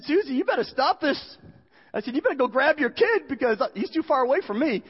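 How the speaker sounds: high, urgent appeal; retold alarm. Husband begging his wife to grab their kid, urgent retold plea. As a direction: plead for help in mock panic.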